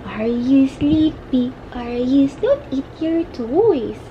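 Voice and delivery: slow, drawn-out cooing. Real, not acted. Mother checks on her sleepy baby, slow baby talk.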